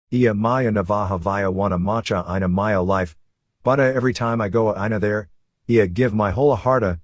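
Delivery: lightly voiced Puerto Rican accent, mildly defensive; San Juan accent. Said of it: "Williams said defensively".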